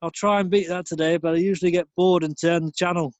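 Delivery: mock northern bloke. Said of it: "just bog standard northern".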